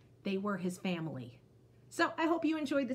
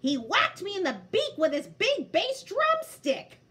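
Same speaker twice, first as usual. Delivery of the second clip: high, loud, giggling while telling; can hardly get it out for laughing; laughing through the line; 11 semitones higher, 7 dB louder than usual. Acted. Bear giggling as he tells the others.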